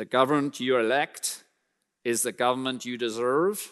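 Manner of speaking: put-on American accent. Speaker quoting a famous saying to the Americans, put-on American accent. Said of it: "That's my American accent".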